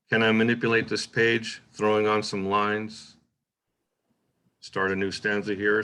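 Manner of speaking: short pause at line breaks, longer at the stanza. Shown as a demonstration. Teacher reading aloud to show stanza breaks, with longer pause. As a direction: space out the lines, hold longer before "Start". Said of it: "you hear that the pause".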